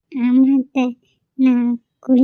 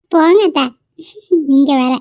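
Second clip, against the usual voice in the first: coy, embarrassed protest; bashful; 3 dB louder than usual. Acted. Daughter-in-law teased by mother-in-law, bashful. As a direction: shoo her off shyly. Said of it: "புள்ள வெக்கப்பட்டு ஓடும்போதே தெரியுது".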